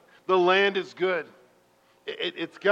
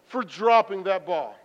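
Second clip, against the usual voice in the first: slow, louder pleading prayer; earnest prayer; 4 semitones higher, 8 dB louder than usual. Retold or imitated. Sorry prayer to God after dropping the ball, earnest. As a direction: pray it sincerely. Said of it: "And I said".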